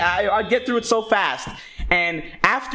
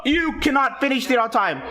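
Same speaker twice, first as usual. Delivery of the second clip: mock teacher yelling; 6 semitones higher than usual. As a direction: play the teacher blowing up at the kid. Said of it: "So they're like".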